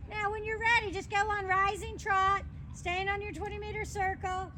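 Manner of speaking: projected riding commands. Acted. Riding instructor calling commands.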